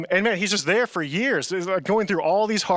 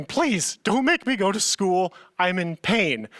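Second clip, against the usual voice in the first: retold pleading; 3 semitones higher, slower than usual. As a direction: imitate a suffering kid begging. Begging parents, retold.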